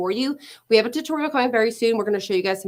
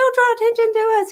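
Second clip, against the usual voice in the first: put-on pure panic, pitched very high; 13 semitones higher, 5 dB louder than usual. Retelling what she tells her husband when he talks to strangers: imitating her own panicked plea. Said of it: "it's just I panic, pure panic".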